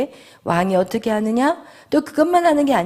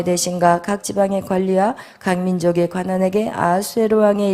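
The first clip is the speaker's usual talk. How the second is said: even-pitched Bible reading; measured recitation; scripture reading; 3 semitones lower than usual. A narrator's reading. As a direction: read the verses out steadily in a formal monotone. Reads scripture aloud.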